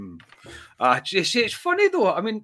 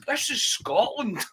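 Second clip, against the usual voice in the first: a higher, slow, lightly hammed-up announcer line; imitating his character voice; 10 semitones higher, slower than usual. Host imitating cohost's character bit, higher and slow. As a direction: mimic a cohost's TV persona, slowly. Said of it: "broke into character".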